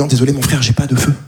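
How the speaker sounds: low, calm, polite refusal; calm and low-key, keeping things from escalating. Retold or imitated. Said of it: "je lui dis non, très calmement".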